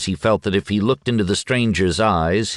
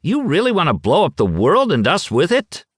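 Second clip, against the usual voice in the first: much higher, alarmed; terrified splutter; 11 semitones higher, 3 dB louder than usual. A narrator's reading. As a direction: blurt it out in fear. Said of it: "spluttered with a terrified look".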